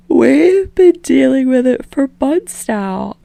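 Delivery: a hint of a weary young woman; lightly voiced Jiro. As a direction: drag it out, sleepy and fed up.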